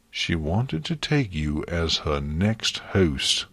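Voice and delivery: slow, lightly harsh statement; a touch of harshness, blunt. Acted. Luna bluntly telling Twilight the truth, harsh. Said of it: "Luna said harshly".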